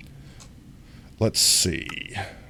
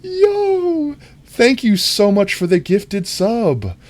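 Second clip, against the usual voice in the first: laughing thanks; 4 dB louder, slower than usual. Real, not acted. Laughing at chat, thanking gifter.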